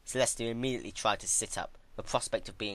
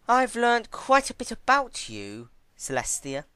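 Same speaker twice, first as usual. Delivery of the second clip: slow, higher, louder smug drawl; Twilight gloating; 8 dB louder than usual. Acted. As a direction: savour your power over her.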